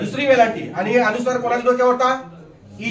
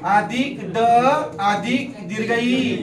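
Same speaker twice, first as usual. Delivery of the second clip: slow breakdown; slower than usual. Shown as a demonstration. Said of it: "याची फोड करा".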